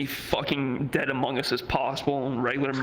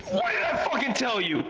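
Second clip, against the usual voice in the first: much higher gloating taunt; hype man taunt; 10 semitones higher than usual. Retold or imitated. Hype man crowing at the coworker, higher and gloating. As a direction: crow over him like a hype man.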